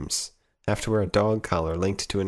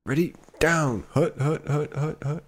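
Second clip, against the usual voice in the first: higher, barked snap count; quarterback calling cadence; 5 semitones higher than usual. Pretend. Acting out a football snap count.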